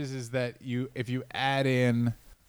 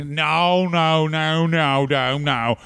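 stray Aussie accent slipping into a retold denial; a sudden bad Australian accent; accidental Australian accent; much slower than usual. Mocking a wrestler's denial, drifting into an Australian accent. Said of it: "oh, that was an Australian accent".

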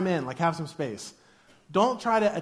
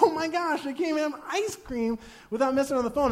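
mock scoffing remark; 7 semitones higher than usual. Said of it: "I was like".

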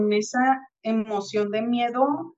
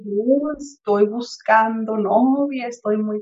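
slow, effortful, halting speech; struggling to speak; slower than usual. Retold or imitated. Man recovering from hospital struggling to get words out, slow and effortful. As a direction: push each word out slowly, as if speaking is still hard. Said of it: "a como él podía".

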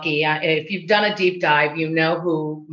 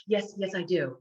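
breaking character; 9 dB quieter than usual. Retold or imitated. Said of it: "completely broke character".

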